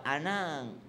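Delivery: gentle mother, laughing. Retold or imitated. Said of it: "Tapos, ah".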